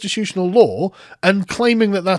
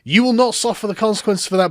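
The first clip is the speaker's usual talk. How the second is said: high, raised-voice imitation of distress; mock screaming; 6 semitones higher, 4 dB louder than usual. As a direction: wail it mockingly, pitched well up. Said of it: "is just screaming".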